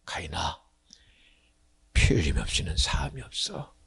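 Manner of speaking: low, soft, hushed whisper; gentle whisper. Acted. God answering the jealous brother in a low, tender whisper. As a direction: say it softly, as aching love.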